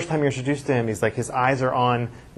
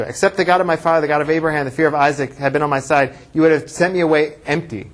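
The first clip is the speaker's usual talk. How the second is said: raised, louder declaiming of a retold speech; powerful; 3 semitones higher, 4 dB louder than usual. Jacob's big speech to Lavan, read out with powerful raised voice. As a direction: proclaim it like an accusation. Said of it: "this is powerful too".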